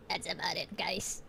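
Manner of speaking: soft whispered aside. Real, not acted. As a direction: drop to a whisper. Whispered repeat.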